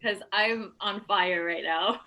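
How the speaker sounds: slow, laughing with mouth on fire; laughing through the burn. Real, not acted. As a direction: laugh it out while the chili burns. Burning mouth from chilies.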